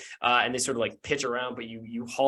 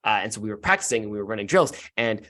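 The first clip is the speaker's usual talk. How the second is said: put-on earnest kid; 2 semitones lower than usual. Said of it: "looks at you earnestly and says".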